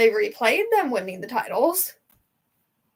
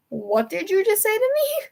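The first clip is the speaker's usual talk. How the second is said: stunned disbelief; 9 semitones higher than usual. Retold or imitated. Fan repeating her question to dad, high and disbelieving. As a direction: stretch it out, still reeling.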